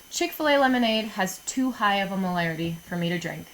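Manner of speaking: super nerd voice. Shown as a demonstration. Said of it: "say it like a super nerd".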